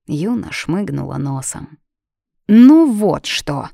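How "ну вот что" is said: slow, firm and louder; confident. A narrator's reading. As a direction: put your foot down, slowly. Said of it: "уверенно сказала Фанни".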